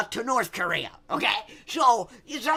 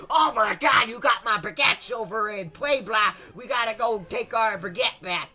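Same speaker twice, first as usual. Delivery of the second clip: dumb French. Acted. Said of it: "and dumb French are like".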